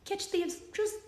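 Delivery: slow, overdramatic Russian-accented recital with big pauses; dramatic reading in a Russian accent. Shown as a demonstration. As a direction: read it gravely like a Russian poet, then trail off soft. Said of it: "This is a dramatic reading of the Spider-Man theme song as done by the speaker".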